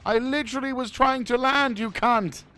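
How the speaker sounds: loud, high outburst of real rage; real angry screaming at the game; furious shout. Real, not acted. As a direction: yell it in exasperation at whoever ruined the landing. Shot down while trying to land.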